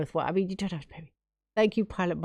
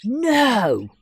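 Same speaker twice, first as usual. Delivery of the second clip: gasping, high and loud disbelief; can't believe the gift, gasp and squeal it; overjoyed; 9 semitones higher, 4 dB louder, slower than usual. Real, not acted. Streamer overwhelmed by Pilot Mike's huge gift, high loud gasps.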